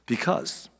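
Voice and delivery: breathy whispered word. Real, not acted. Pastor leans in to the church, whispering. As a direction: drop to a hushed whisper.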